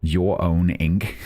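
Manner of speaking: slow, drawn-out take on a put-on regional accent; Ernie's accent. Gamer trying a character's accent for fun, playful put-on accent. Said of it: "fun to say in an Ernie's accent".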